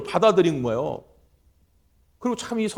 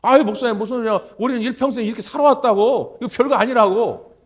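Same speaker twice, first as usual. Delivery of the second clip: put-on dismissive old man; 4 semitones higher, 5 dB louder than usual. Grandfather brushing off the rebuke.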